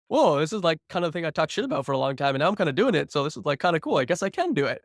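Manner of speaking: giddy surprise at doing it; excited realization. Retold or imitated. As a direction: marvel at your own success.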